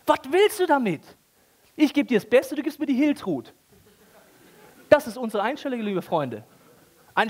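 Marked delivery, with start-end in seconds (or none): 0.0-3.5 high, exasperated God voice. Acted. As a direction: push it back like a fed-up father. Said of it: "Luther drückt das ein bisschen heiliger aus".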